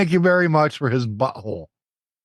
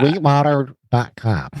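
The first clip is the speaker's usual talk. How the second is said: nose clipped shut; pinching nose. Real, not acted. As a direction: talk with a clip on your nose. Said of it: "I have put a clothespin on my nose".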